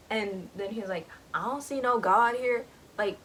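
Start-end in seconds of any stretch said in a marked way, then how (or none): 1.3-2.6 a louder, hard threat; menacing big man. Retold or imitated. Jeopard threatening the hunter, with menace. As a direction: lean in and mean business. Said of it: "he means business".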